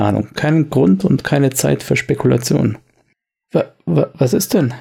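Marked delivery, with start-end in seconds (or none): 3.5-4.7 stotternd und etwas höher; zögerlich, stotternd. Acted. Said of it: "Sagt er zögerlich". (zögerlich stotternd, etwas höher)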